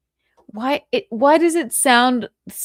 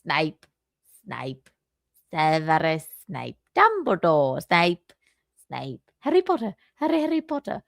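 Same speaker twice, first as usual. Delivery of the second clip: mock British accent; 4 semitones lower than usual. Shown as a demonstration. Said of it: "the only thing I can say in a British accent".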